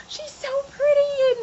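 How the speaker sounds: put-on high, slow, awed child voice; little girl voice. Little girl gushing to her dad about the dress, high and slow. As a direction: say it slowly, like a dazzled little kid.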